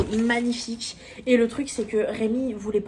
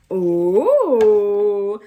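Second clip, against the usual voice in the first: loud startled oh; a big surprised gasp of oh; 10 dB louder than usual. Real, not acted. Reacting to card note.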